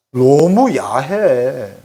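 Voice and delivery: very slow, stretched-out complaint; recalling the elders' crude jokes; drawn-out disgust. Real, not acted. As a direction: drag the words out in distaste. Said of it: "얼마나 찐한 그런 야한 농담을".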